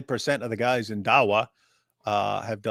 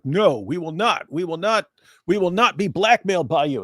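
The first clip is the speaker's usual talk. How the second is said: mock defiant refusal; 5 semitones higher, 4 dB louder than usual. Preachers refusing Winger's blackmail.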